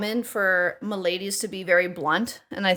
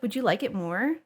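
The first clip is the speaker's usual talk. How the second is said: service voice; 5 dB quieter than usual. Shown as a demonstration. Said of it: "my service voice".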